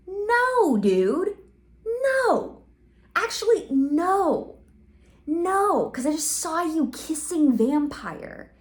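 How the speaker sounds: high, loud hammed-up crying whine; fake-sob it like a wounded teen; mock crying. Draco sobbing in the corner.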